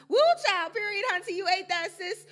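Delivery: high, loud mock gushing slang. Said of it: "statement you make to your half-black friends".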